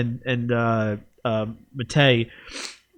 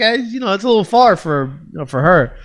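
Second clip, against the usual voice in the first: Larry David; 6 semitones higher, 5 dB louder than usual. Retold or imitated. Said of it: "him being Larry David".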